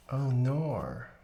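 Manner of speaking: "oh nor" in a mock Australian accent. Streamer testing an accent they can't do, mock Australian. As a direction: exaggerate the Australian rounded vowel. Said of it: "How good is your Australian accent?".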